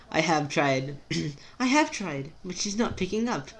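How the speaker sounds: measured, robot-like Rose. Acted. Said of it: "I keep doing the robot voice when I do Rose".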